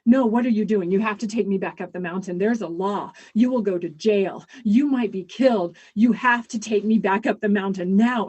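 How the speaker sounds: loud, frantic urgency; old father terrified of the law, loud and frantic; panicked. Acted. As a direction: beg him to take you back. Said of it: "and panicking, he said".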